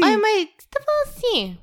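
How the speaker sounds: very high Mineiro accent, hammed-up; mock mineiro. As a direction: imitate a Minas accent way up high. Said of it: "falando igual mineiro". (sotaque mineiro exagerado, bem agudo)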